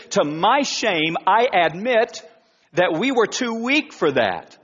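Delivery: sarcastic. Retold or imitated. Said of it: "he says it sarcastically".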